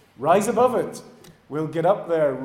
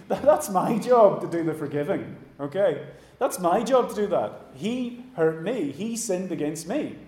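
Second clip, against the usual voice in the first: indignant objection; 3 semitones higher, 3 dB louder than usual. Acted. Acts out Mansfield objecting to forgiveness.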